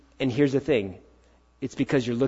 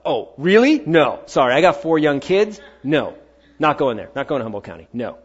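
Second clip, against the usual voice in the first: mock stubborn refusal; 3 dB louder than usual. Refusing God's call, retold.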